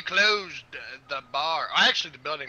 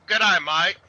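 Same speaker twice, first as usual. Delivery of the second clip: mock Australian; 6 dB louder, slower than usual. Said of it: "all they gotta say is".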